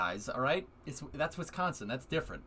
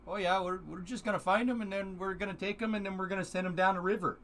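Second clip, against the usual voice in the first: lightly voiced jolly Canadian lumberjack, a bit higher; friendly hoser chatting from the water; 4 semitones higher than usual. Voicing a photo of lumberjacks, jolly Canadian lumberjack.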